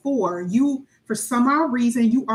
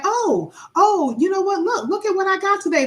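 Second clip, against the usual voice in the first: lightly raised, eager show-off; mock excited brag; 8 semitones higher than usual. Telling a friend about a purchase, eager and raised. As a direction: imitate someone thrilled to show a new buy.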